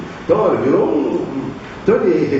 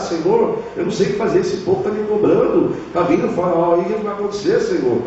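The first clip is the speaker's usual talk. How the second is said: desperate pleading; 5 semitones higher than usual. Retold or imitated. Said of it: "clamar ali, desesperado".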